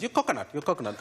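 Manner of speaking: lightly imitated Sri Lankan mum; Sri Lankan accent. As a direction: mimic your mum's Sri Lankan accent. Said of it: "Is it okay you doing the accent".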